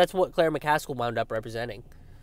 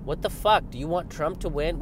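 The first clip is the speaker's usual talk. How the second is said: higher, indignant mock scolding; mock liberal; 5 semitones higher than usual. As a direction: parody of an offended liberal. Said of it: "That's always what I get from lib".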